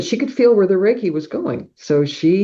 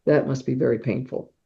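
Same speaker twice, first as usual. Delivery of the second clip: soft sympathy; 2 semitones lower, 6 dB quieter than usual. Retold or imitated. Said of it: "she said".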